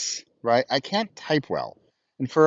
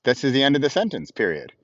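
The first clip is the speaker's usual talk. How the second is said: reading out commas and periods to a phone; dictation voice. Shown as a demonstration. To viewers, demoing his dictation, spoken like a dictated note. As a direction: spell out the punctuation word by word like dictating. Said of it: "And so I say".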